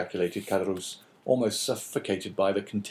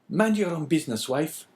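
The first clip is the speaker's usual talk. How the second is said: higher, curt and irritated; sharp retort; 8 semitones higher, 3 dB louder than usual. A narrator's reading. Husband telling his wife to keep out, sharp. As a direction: snap back at her. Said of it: "replied Caderousse sharply".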